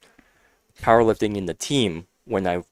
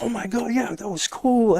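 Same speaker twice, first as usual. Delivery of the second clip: imitated supportive cheer; 12 semitones higher, 4 dB quieter than usual. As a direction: voice an impressed rival, pitched way up. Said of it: "they're supportive of the person".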